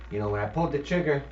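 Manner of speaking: put-on thick New Jersey hitman accent; quick, thick New Jersey accent. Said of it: "In this thick New Jersey accent".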